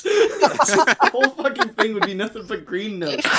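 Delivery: slow, high laughing words. Real, not acted. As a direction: talk through helpless laughter. Cracking up over joke.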